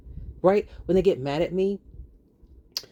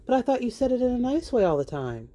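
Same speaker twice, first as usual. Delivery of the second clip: sarcastic disbelief; 10 semitones higher than usual. Real, not acted. Sarcastic jab at panelist.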